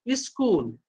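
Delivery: स्कूल as इस्कूल, leading i sound; 1 school with added i. Shown as a demonstration. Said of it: "not school".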